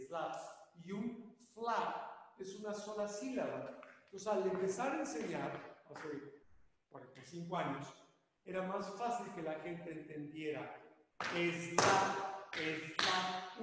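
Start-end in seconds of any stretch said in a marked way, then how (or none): 0.1-0.4 "slap" said as es-LA; "slap" broken into two Spanish syllables; Spanish two-syllable pronunciation. Shown as a demonstration. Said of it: "digo slap". 11.2-13.6 "slap" as two loud syllables, es-LA; "slap" with an added "e", both syllables distinct; one syllable per sound. Shown as a demonstration. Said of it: "una sílaba por cada sonido".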